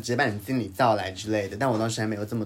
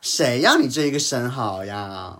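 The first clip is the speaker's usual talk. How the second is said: angry retort; 5 dB louder, slower than usual. Retold or imitated. Angry retort retold in a complaint.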